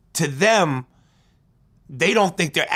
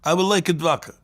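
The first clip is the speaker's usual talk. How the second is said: Russian accent; 2 semitones higher than usual. Shown as a demonstration. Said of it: "when I do a Russian accent".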